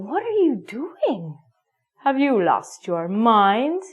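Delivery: mock exasperated student. Student scolding teacher.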